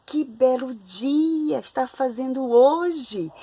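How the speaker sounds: slow, admiring exclaim; joyful exclamation. Shown as a demonstration. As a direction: savour the lovely day slowly. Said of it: "está ali com alegria". (exclamação alegre e lenta)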